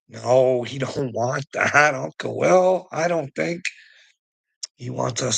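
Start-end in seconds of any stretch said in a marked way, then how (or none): none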